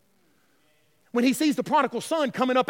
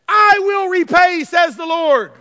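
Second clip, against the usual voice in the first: booming scripture; 3 semitones higher, 8 dB louder, slower than usual. Acted. Preacher booming scripture quote.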